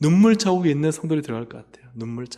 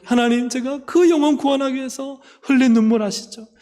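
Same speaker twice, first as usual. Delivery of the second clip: high, impassioned appeal to God; acted tearful plea; 8 semitones higher, 5 dB louder than usual. Believer reminding God of tears shed for family's salvation, tearful pleading. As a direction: plead insistently as if through tears, louder on each refrain. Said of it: "그렇게 막 눈물 흘렸던".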